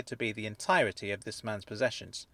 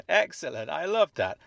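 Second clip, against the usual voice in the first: louder, higher, thrilled; delighted; 8 semitones higher, 8 dB louder than usual. Acted. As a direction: savor the phrase with glee. Delighted reaction to nerd army.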